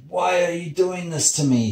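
high, pained wail of complaint; acted high-pitched plaintive moan. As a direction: moan it as the beaten sun. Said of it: "he moaned".

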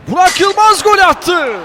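screaming football commentator. Real, not acted. Goal call in live commentary.

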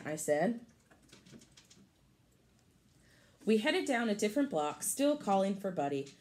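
lively storybook read for a class; picture-book read-aloud voice; reading to children. Acted. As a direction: read it brightly to the kids.

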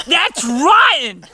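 slow, laughing outcry; laughing disgust. Real, not acted. Hit by a rotten-egg balloon.

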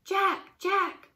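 high, loud repeated name call; loud high-pitched cries of a name; crying out. A narrator's reading. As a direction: call out urgently for him. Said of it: "cried Annie".

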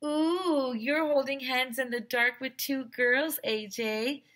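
high singsong teasing; teasing kid. Acted. Ryan teasing A.J. about holding hands, high singsong. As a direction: tease him like a schoolyard kid. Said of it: "said Ryan".

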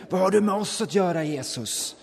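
high, loud demonic outburst that drops at the name; a man in the synagogue cries out at Jesus, loud and high; mock scream. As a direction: shriek it like a possessed man interrupting worship. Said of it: "helt plötsligt börjar skrika".

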